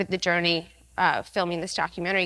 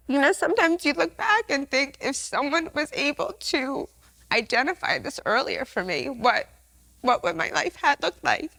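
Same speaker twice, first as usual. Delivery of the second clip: emotional; 4 semitones higher than usual. Real, not acted. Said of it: "Sorry, I'm so emotional".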